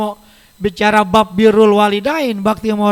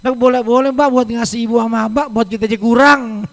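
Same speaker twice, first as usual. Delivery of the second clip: louder, whiny refusal to give money; stingy grandchild; 6 dB louder than usual. Retold or imitated. Young worker telling sister not to give money to mother, louder. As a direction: argue loudly against giving to parents. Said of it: "ngomongnya begini".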